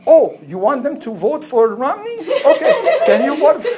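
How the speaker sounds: high, laughing mock question; laughing mockery. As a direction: tease while laughing. Mocking priest, laughing.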